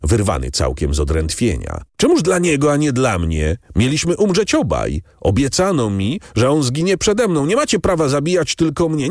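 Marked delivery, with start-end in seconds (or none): 2.0-7.5 desperate outcry. A narrator's reading. Condemned man's desperate outcry. 7.5-9.1 high pleading cry, MACIE stressed; first plea, high but not yet screaming; desperate protest. A narrator's reading.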